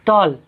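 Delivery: टॉल as one unbroken syllable. Shown as a demonstration. Teacher showing a one-syllable word, टॉल said in one go. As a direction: say टॉल straight through without a break. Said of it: "एक साथ बोले".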